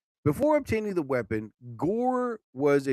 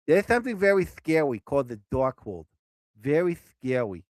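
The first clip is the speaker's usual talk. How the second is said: mock spooky. Spooky intro of the Darkhold.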